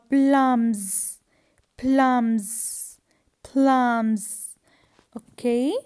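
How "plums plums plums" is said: "plums" drawn out with a voiced z ending; emphatic model of "plums", S said as z; final S as Z. Shown as a demonstration. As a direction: buzz the end of each "plums". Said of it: "And here we have also".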